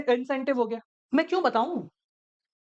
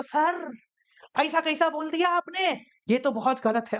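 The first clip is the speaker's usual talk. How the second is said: higher, mock-offended protest at "ऐसा कैसा बोल दिया"; mock-indignant student; 4 semitones higher, slower than usual. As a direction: play the closed-minded student objecting, lightly. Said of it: "ऐसा नहीं कि इसने ऐसा कैसा बोल दिया". (हल्का नाटकीय ऐतराज़ जताता छात्र)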